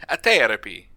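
light mock Mediterranean accent; vague Mediterranean accent. Teasing co-host's odd pronunciation with a light Mediterranean accent. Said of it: "you just sound like you're from some".

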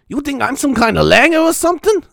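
indignant TV judge voice, hammed up; Judge Judy with Irish slang. Judge Judy scolding in Cork slang, hammed up. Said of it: "Judge Judy saying things, uh, you know, Irish phrases".

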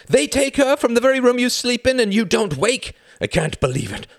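high, loud outburst that eases at the end; furious accusation. A narrator's reading. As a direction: hurl the accusation in disbelief. Son furiously accuses his father.

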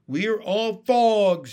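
high, loud, slow froglet cry; drawn-out, high-pitched cheer; little voice shouting. A narrator's reading. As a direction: shout it like a jubilant tiny froglet. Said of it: "shouted a fourth little voice".

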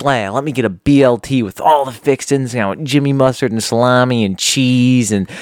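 hammed-up greedy sandwich order, building to a loud high finish; greedy customer. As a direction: rattle off the whole order like you want everything. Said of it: "He's like, it's always like".

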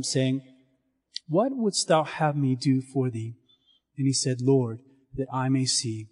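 solemn, even liturgical reading; gospel reading. Acted. Priest proclaiming the gospel to the standing congregation, solemn. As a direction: proclaim it like a lector at Mass.

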